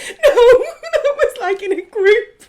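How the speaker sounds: slow, high, laughing through the words; can barely talk for laughing. Real, not acted. Laughing while answering.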